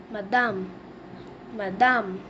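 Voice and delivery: "madame" as "ma-DAM" with a falling end; teacher modelling "madame"; French pronunciation. Shown as a demonstration. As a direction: say "madame" the French way, stress on the last syllable. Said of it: "We say madam in French".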